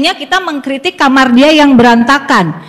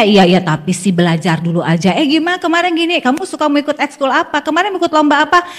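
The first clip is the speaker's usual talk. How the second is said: softer, light coaxing change of subject; gentle redirect; 5 dB quieter than usual. Shown as a demonstration. Mother softly steering her child toward school topics. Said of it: "arahkan rasa suka itu".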